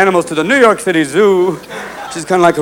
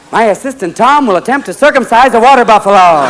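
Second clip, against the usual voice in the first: lightly voiced nature-show host; Marlon Perkins; 4 semitones higher than usual. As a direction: announce it like a TV wildlife presenter. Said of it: "They always cut to Marlon Perkins going".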